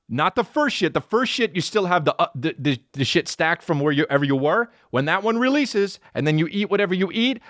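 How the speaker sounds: usual speaking voice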